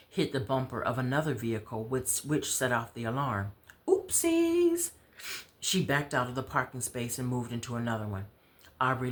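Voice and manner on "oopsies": squeaky high oopsies; playful oops. Acted. Willow bumping a car while parking, a squeaky high oops. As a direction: chirp it like a cheeky little slip.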